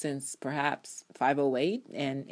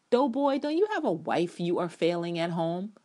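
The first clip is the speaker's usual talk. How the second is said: mocking insult; 2 semitones higher, 4 dB louder than usual. Real, not acted. Fan mocking Jake's marriage, louder scorn. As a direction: taunt him with scorn.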